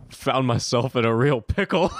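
laughing while quoting a friend; quote through laughter. Retold or imitated. Retelling a friend's pickle story, laughing through it. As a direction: quote a friend's line, cracking up. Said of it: "She said".

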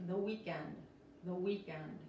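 WEEKEND with the final D barely sounded; very soft D. Shown as a demonstration. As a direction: let the D at the end of WEEKEND fade away. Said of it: "Aquí la D es muy suave".

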